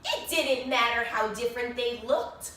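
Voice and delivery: lively storybook narration with bright rises; animated read-aloud for a class; reading to children. A narrator's reading. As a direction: read it like story time for little kids. Reads picture book to children.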